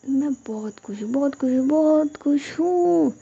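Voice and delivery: building from level to high, loud and stretched; each repeat happier, the last drawn out slowly; overjoyed. A narrator's reading. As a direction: swell into gleeful joy.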